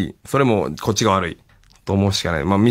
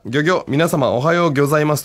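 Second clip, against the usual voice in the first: a hint of a higher, chirpy character greeting; lightly voiced Sakana-kun; 4 semitones higher than usual. Radio host reads out a listener's suggested impression, lightly voiced Sakana-kun. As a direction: raise your natural voice for a light impression. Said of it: "地声の高めのこの方なら".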